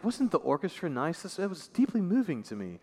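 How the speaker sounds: lightly mocking gushy concertgoer; a hint of a pleased, gushy listener; mock sentimental. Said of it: "I hear "deeply moved," and I think".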